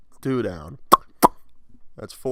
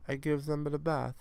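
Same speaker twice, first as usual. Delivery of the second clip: put-on French accent slipping into Italian; pitched-up, botched French accent; attempted French accent; 6 semitones higher than usual. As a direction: try a French accent, badly. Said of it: "I could do a French accent".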